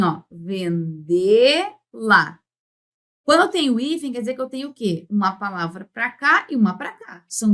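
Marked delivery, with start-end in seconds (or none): 0.3-2.4 "vendê-la" very slow, split into vendê and la; teacher sounding out "vendê-la" in two parts; split pronunciation. Shown as a demonstration. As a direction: stretch the stressed "dê" in "vendê-la", then a separate "la". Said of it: "Fica assim".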